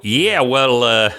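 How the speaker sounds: high, bright little creature, chatty and eager; friendly little critter greeting a traveler, high and chatty; small creature voice. Acted. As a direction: pitch way up as a cheerful little critter.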